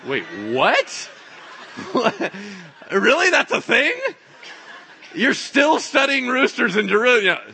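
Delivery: high, loud disbelief breaking into laughter; incredulous. Acted. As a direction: react in amused astonishment. Incredulous at rooster study.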